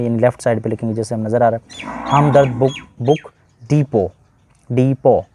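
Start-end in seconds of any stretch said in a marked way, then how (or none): 3.0-5.2 डिपो with the final t dropped, said "dipo"; डिपो pronounced dipo, t silent. Shown as a demonstration. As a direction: say डिपो ending on a clean "o", no t. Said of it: "तो ये टी इसका silent है, डिपोट नहीं पढ़ेंगे".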